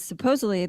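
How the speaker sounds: supposedly leaned on with a light ironic push; supposedly, said with a knowing ironic weight; stress on supposedly. Shown as a demonstration. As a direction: lean on the word supposedly. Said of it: "Emphasis on the word supposedly".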